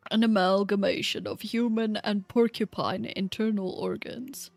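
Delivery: lightly voiced old man; old guy voice. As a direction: read the notes like an old scholar. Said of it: "I'll do my old guy voice again".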